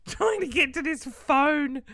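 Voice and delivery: lightly hammed creeping creature; Gollum. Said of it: "I looked like Gollum".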